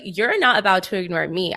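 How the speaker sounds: sassy, emphatic self-quote; indignant retort. Retold or imitated. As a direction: act out being affronted. Retelling her indignation at being ignored.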